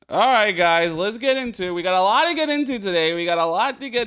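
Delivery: energetic streamer intro; hype intro. Real, not acted. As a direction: pump up the chat. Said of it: "streamer hype intro".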